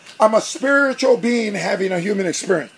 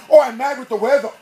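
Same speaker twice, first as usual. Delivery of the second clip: louder mock complaining, one gripe after another; acted angry griping; 3 semitones higher, 5 dB louder than usual. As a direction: gripe as if everything annoys you. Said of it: "everything becomes angry".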